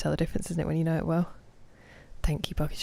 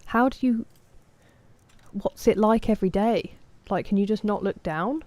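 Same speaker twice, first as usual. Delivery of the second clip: a whispered, breathy start, then higher, as if baffled by her; incredulous mock quote; 4 semitones higher than usual. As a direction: playfully imitate your own baffled younger self. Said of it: "and I was like".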